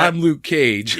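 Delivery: lightly imitated self-introduction; Luke Cage. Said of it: "video was Luke Cage saying".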